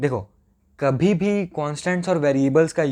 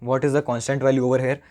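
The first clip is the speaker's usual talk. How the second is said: slow, deliberate repeat of the question; slower than usual. Shown as a demonstration. Teacher repeating the question to students, slow and deliberate. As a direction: spell it out slowly for the class. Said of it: "बहुत धीरे धीरे बोल रहा हूँ".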